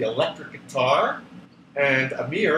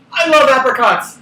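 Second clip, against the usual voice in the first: louder, higher burst of joy over apricots; Peg's delight; 8 semitones higher, 10 dB louder than usual. A narrator's reading. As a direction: gush about apricots like a thrilled kid. Peg excited about apricots.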